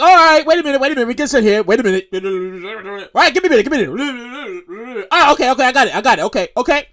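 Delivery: lightly voiced harried conductor on the radio; conductor on walkie-talkie. Conductor answering someone on walkie-talkie, lightly mimicked and harried. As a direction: imitate a conductor fielding radio chatter. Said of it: "he's on a walkie-talkie and he's talking".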